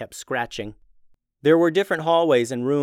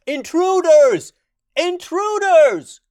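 very high, loud, slow alarm cry; booming voice; 9 dB louder, slower than usual. Acted. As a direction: boom it out, dragging each word. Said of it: "repeating the cry".

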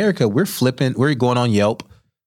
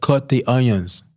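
slow, high, deliberate chef order; stern chef; 4 semitones higher, slower than usual. Retold or imitated. Head chef ordering the new cook around, slow and firm. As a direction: spell it out slowly like a bossy chef. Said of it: "He's like".

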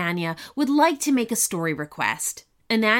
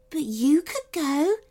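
hopeful; 4 semitones higher than usual. Acted. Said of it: "said the third fairy hopefully".

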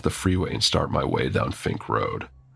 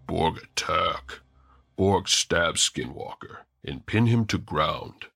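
gentle orc voice. Acted. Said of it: "as gently as an orc can".

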